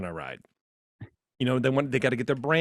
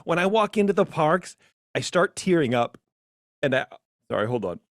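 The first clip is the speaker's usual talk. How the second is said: gushing fan parody; 7 semitones higher than usual. Pretend. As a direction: overdo the teary Disney fan. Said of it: "you can hear me smiling".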